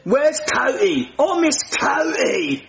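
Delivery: mock sad. Nigel pining for Cody.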